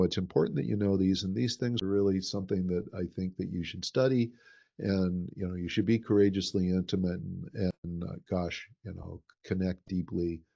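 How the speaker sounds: level monotone with no lift, quietly; even, low-energy delivery, words only; flat, no elevation. Shown as a demonstration. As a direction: talk it dry and unemotional, like a dictionary. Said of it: "without any elevation in my voice, I'm just talking like this".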